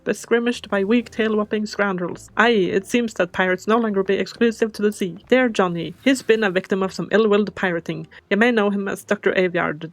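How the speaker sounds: put-on old sea captain with a pirate lilt, booming. Captain asking the little squid for help, pirate voice. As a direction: play the salty captain recruiting his apprentice.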